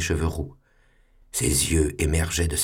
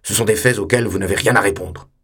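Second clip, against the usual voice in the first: louder, hard accusing tone; stern accusation; 2 semitones higher, 6 dB louder than usual. Acted. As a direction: lay down the facts severely. Superior accusing the pupil.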